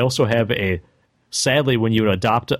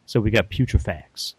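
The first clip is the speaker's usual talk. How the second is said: breathy sultry voice. Pretend. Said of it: "you were so breathy that your breath actually controlled everything".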